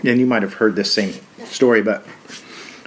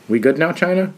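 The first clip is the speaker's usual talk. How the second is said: laughing; 8 semitones higher than usual. Real, not acted. Mocking aside after the quote.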